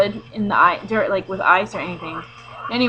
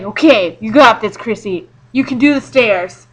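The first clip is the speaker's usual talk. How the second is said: self pep talk; 4 dB louder than usual. Retold or imitated. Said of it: "I was just like".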